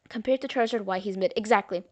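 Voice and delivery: talking between sips of soda; drinking soda. Real, not acted. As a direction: speak around a sip of soda. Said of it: "Sorry, I'm drinking a soda".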